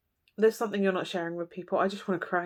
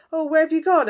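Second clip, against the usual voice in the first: higher, louder whiny wail; mock plaintive cry; 8 semitones higher, 7 dB louder than usual. Reader mimicking the querent calling after a friend, high whine. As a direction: whine it like a left-behind child.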